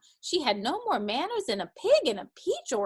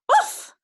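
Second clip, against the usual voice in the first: loud, high-pitched "oof"; a sudden high burst of breath; smothered oof; 10 dB louder than usual. A narrator's reading. Dusty Locks sunk in the feather bed, loud oof. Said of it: "said Dusty Locks".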